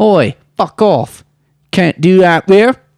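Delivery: put-on horrible, high-pitched English accent. Retelling history as a joke, the speaker voices England in a horrible English accent. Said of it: "I know that sounds like a horrible English accent".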